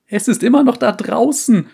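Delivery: high, loud panicked cry; panicked shout. Acted. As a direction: scream it in terror. Panicked survivor insists.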